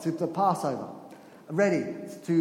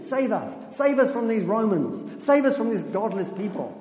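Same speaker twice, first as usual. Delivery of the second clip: crowd pleading; 4 semitones higher, 3 dB louder than usual. Retold or imitated. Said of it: "This is what they're thinking".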